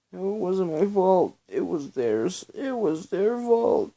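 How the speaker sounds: high, loud furious denial; shouting in a rage, dragging out the last phrase; aggressive scream. A narrator's reading. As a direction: hurl the blame back at them. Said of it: "Belle screamed aggressively".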